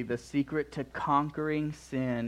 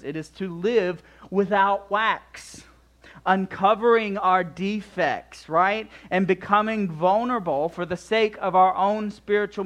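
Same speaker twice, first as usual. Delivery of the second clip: raised, louder pulpit delivery; forceful preaching; 6 semitones higher, 5 dB louder than usual. Real, not acted. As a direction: drive the exhortation home with lifted pitch.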